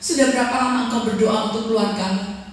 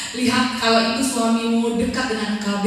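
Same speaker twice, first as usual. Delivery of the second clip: ordinary talk, nothing marked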